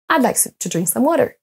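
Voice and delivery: "to" and "some" barely pronounced; weak function words. Shown as a demonstration. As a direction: let "drink" and "water" stand out over "to", "some". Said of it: "vont être à peine prononcés".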